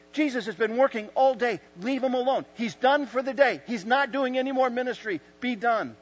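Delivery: loud, high-pitched telling-off; acted scolding. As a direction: order him off as a protective disciple. Acted disciples scolding the blind man.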